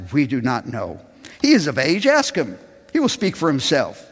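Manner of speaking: lively bible reading with voiced figures; scripture reading. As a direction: read the passage with feeling. Reads scripture with voiced parts.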